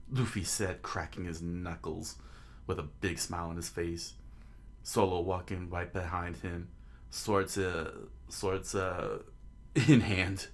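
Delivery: measured narrator reading aloud; understated storyteller; story narration. A narrator's reading. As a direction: narrate the scene evenly.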